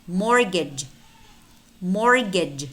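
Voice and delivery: mortgage as "morgage"; silent T. Shown as a demonstration. Teacher models silent letters for learners, silent T in mortgage. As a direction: drop the T in mortgage. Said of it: "but it's not pronounced".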